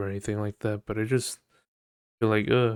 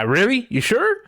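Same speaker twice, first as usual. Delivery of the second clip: sarcastic; 13 semitones higher, 6 dB louder than usual. Real, not acted. Sarcastic reply to app.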